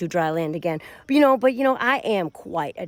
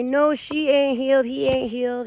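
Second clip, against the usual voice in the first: higher, louder mock protest; mimicked objection, pitched up; acted denial from detractors; 4 semitones higher, 5 dB louder than usual. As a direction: imitate naysayers insisting, raised voice. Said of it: "They say".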